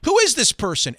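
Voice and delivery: high, loud furious yelling; drunken screaming rage. Retold or imitated. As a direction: scream it at the stranger in the booth. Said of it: "He started screaming at me".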